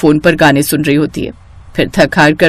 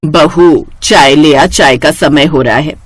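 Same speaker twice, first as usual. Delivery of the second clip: lightly voiced older mother-in-law, a bit lower, calling for tea; a hint of an elderly sas asking her bahu for tea; 4 semitones lower, slower than usual. (हल्की सी बुज़ुर्ग सास की आवाज़)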